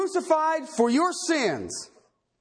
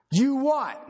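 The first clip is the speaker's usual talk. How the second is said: whispered question; whispered mock confusion. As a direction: breathe it like a puzzled aside. Mock puzzled echo of quote.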